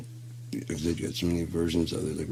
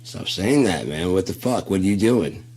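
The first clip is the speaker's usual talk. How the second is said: alarmed yell; 2 semitones higher, 7 dB louder than usual. Retold or imitated. Dude yelling at friend who calls to say goodnight, alarmed. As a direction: snap back like something's wrong.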